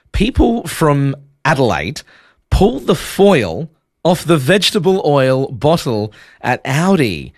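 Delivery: slow, careful reading of "People from Adelaide pull the foil off the vegetable oil bottle at Aldi"; deliberate demo read of the test line. Shown as a demonstration. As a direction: read every word slowly as a test sentence. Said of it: "Let me read that to you again".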